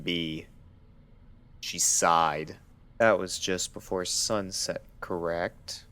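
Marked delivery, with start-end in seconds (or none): 3.0-5.8 doctor's voice. Acted. Doctor questioning Fluttershy.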